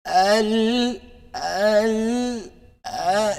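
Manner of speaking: Al stretched on a long vowel; long held hamza. Shown as a demonstration. Teacher stretching the first hamza for students, long hold. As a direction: hold the Al well past one beat. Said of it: "See how long that was?".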